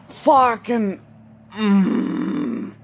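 jump-scared yelp of a swear; jolted cry from a jump scare; sudden startled swear. Real, not acted.

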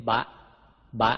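short voiced "บะ"; voiced Pali b. Shown as a demonstration. Teacher demonstrates Pali letters to readers, voiced "บะ". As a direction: say "บะ" with a Thai b, cut short. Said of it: "ออกเสียงบอใบไม้เป็น".

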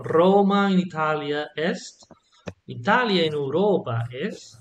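"Graecia" with a hard k sound, every letter sounded; "quoque" said with kw and k, in classical Latin; restored classical Latin pronunciation. Shown as a demonstration. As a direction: read out "Roma in Italia est" in classical Latin, each letter one sound. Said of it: "in restored classical pronunciation, every letter has only one sound".

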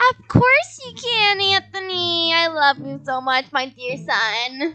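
syrupy sweet, slow and soft; sweet doting. Acted. Mom doting on her son Anthony, sugary and soft. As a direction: gush over the favourite child.

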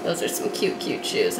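softly whispered admiration; hushed, breathy-free whisper of delight. Real, not acted. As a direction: whisper it to yourself. Admiring shoes under her breath.

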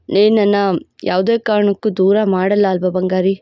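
a proud, possessive lover laying claim; possessive hero voice. Acted. Hero pleads.

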